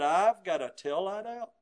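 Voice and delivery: innocent questioning rise on out; feigned surprise. Shown as a demonstration. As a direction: act like it is news to you. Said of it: "with voice inflection".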